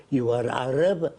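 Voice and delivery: lightly put-on Arab accent; imitated Arab accent. Storyteller quotes the Arab group's head, imitated Arab accent. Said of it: "He said in his accent".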